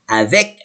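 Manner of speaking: "Avec" ending in a clear k; sounded final C. Shown as a demonstration. Teacher trains reading, final C of "Avec" pronounced. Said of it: "I will see it".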